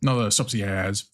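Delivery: talking while crunching chips; words through a mouthful of crunch. Real, not acted. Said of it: "sorry about the crunching".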